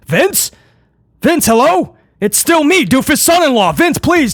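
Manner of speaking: high-pitched panicky calls into the phone; mock pleading. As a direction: plead in hammed-up panic as the line dies. Acted son-in-law losing the phone call.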